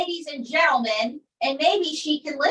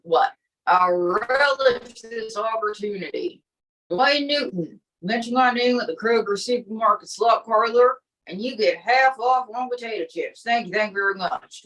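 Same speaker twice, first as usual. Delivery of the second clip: lightly put-on showman voice, a touch low; milk the pun, then sign off as the act; a hint of a lounge comic; corny joke-teller; 3 semitones lower than usual. Comic character signs off.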